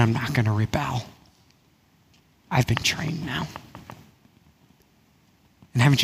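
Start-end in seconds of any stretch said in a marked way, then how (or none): 2.5-3.5 whisper. Acted. Quiet confident resolve.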